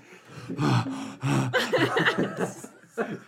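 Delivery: heavy acted panting; labored breathing. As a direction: puff and pant as if worn out. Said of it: "labored breathing".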